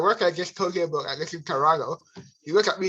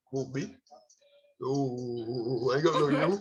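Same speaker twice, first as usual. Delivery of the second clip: shy quiet reply; 5 semitones lower, 6 dB quieter, much slower than usual. Retold or imitated. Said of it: "I'm like".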